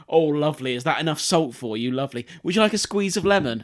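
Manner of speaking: a hint of a doting shop worker; mock-fussing over a customer; sing-song offer, rising on lemon; fussy server.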